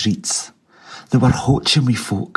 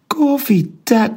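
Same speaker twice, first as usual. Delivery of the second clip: high startled cry, breath taken away; gasping cry; 12 semitones higher, slower than usual. A narrator's reading. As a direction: gentleman gasps at Scrooge's gift, breathless. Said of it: "cried out the Almighty".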